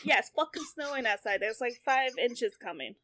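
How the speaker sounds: real, casual Bostonian accent. Real, not acted. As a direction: let the Bostonian slip out. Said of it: "your Bostonian is coming out".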